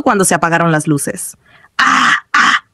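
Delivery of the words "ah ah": high-pitched startled "ah"; two short cries of alarm. A narrator's reading. Gamer as everything seems to freeze, startled cries. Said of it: "exclamó mientras parecía que todo se bloqueaba".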